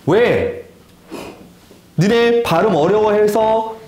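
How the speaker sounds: ordinary talk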